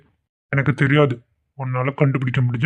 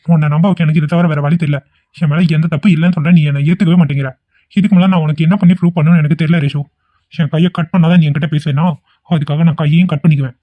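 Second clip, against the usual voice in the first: louder, overacted self-harm threat; melodramatic threat; 5 dB louder than usual. Vikram threatens to cut his hand, louder and overacted. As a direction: ham it up like a film hero. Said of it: "சும்மா voice அவ்வளவுதான்".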